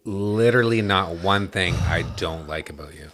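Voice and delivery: overly sincere sarcastic praise; mock-earnest flattery; sarcastic gushing. Real, not acted. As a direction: lay on the compliments sarcastically. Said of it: "you're so sarcastic right now".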